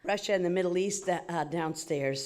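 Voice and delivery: slightly winded after hurrying; out of breath. Real, not acted. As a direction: talk while still catching your breath. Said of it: "so I'm a little out of breath".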